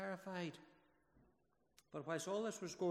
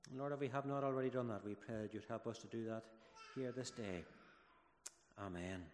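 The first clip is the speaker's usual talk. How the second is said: prayer; 2 semitones lower than usual. Acted. Minister praying for the children and congregation, reverent prayer.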